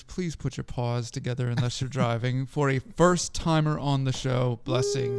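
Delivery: grand ringmaster announcement. Acted. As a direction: announce him like a circus ringmaster. Announcing guest like a circus.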